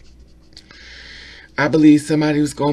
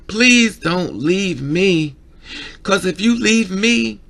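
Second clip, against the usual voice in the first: very slow, louder imitated begging, pitch rising; slow desperate plea; 3 semitones higher, 5 dB louder, slower than usual. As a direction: stretch every word, begging not to be left alone. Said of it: "When a person cries saying".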